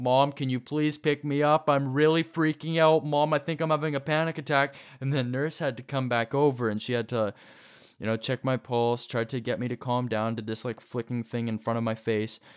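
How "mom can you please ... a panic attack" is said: mock voice climbing into high, raised yelling. Recounting calling mom from the nurse's office during a panic attack: retelling own raised yelling. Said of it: "My voice eventually raised up".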